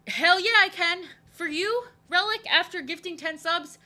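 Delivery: high, loud, excited yes; thrilled. Real, not acted. Streamer answers viewer who gifted ten subs, thrilled. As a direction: burst out with a delighted, high-pitched reply.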